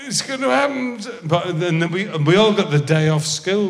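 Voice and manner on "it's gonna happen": put-on high excited yell of a kid; excited shout. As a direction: shout it out, thrilled. Kids awaiting moon landing.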